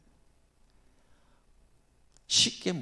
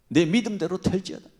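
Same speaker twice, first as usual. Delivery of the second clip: louder, higher commanding blessing; loud proclamation; 5 semitones higher, 7 dB louder than usual. Shown as a demonstration. Jesus pronouncing healing to the blind man. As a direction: declare it with authority.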